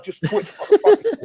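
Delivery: high, loud retold scream; enraged threat. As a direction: spit out a reenacted threat at full pitch. Retold threat while freaking out.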